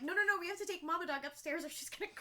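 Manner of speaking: loud and high, half-joking panic; mock frantic yell. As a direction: shout it like you're stopping a disaster, laughing. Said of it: "I'm like".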